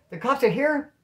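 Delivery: high, incredulous echo question; retold alarmed disbelief. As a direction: repeat the news in acted shock.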